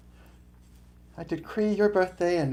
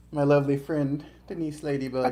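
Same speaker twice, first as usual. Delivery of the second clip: talking while chewing; words round a crunchy bite; crunching chips; 4 dB louder than usual. Real, not acted. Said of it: "Apologies if you hear me crunching".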